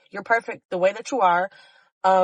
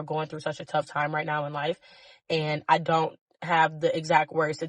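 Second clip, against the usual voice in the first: emotional; 4 semitones lower than usual. Real, not acted. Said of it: "kinda making me a little bit too emotional".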